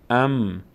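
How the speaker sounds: "ام" closed on a sustained M; vowelless mim. Shown as a demonstration. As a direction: hold the M of "ام", adding no vowel. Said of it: "میم هم حرکتی نداره". («ام» با میمِ ساکن)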